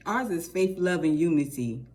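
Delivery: names rattled off in one go; quick, confident run of the names; said quickly. Shown as a demonstration. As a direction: get it out fast before it gets mixed up. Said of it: "I have to say it fast".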